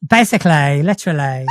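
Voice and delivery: Essex accent stretching the end of literally. Shown as a demonstration. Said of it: "so for an Essex accent".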